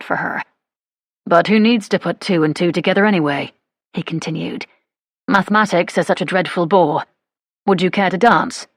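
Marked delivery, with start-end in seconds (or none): 1.2-3.5 a hint of an easygoing English gentleman; lightly voiced suitor. Suitor's character voice. 5.3-8.7 a hint of an easygoing English gentleman; lightly voiced suitor. Suitor's character voice.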